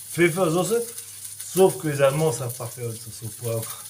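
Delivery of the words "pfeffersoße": Pfeffersoße said the German way, fe-fer-zo-se; carefully sounding out Pfeffersoße in German; German word. Shown as a demonstration. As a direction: show how Germans say Pfeffersoße. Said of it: "En allemand, c'est".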